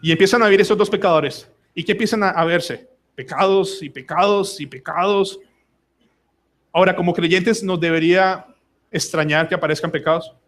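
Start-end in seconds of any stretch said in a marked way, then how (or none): 3.2-5.4 slow, evenly spaced repetition; repetitive listing. Shown as a demonstration. Preacher listing what newlyweds see, slow repetitive listing. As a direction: draw out each PECADOS in turn.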